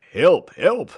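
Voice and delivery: loud, high cry for help; high-pitched urgent yell. A narrator's reading. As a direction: shout for help in alarm. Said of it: "he cried".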